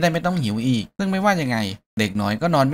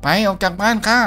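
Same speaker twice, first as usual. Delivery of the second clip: higher, sharper, get out now; irritated telling off; 6 semitones higher, 3 dB louder than usual. Acted. Hero chases the kid out of his house, irritated. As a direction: snap him out the door.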